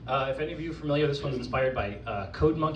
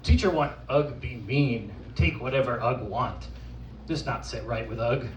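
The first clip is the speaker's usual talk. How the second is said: lightly voiced simple caveman; caveman persona; 5 dB louder, slower than usual. Poet performing as Ugg for the audience, caveman persona. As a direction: recite it as an earnest caveman, lightly played. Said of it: "from the perspective of an actual caveman".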